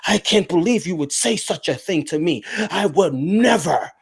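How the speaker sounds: prissy, scandalized mock voice; mock offended voice. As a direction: play it clutching pearls. Mocking offended person.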